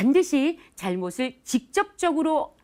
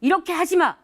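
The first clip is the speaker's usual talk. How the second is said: higher and louder barked orders; bossy commands; 6 semitones higher, 4 dB louder than usual. Retold or imitated. Boss shown ordering staff around, in mock commanding bursts. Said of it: "직접적으로 명령하지 않고".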